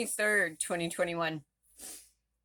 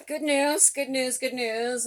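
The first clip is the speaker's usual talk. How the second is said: excited announcement; 7 semitones higher, 5 dB louder, slower than usual. Real, not acted.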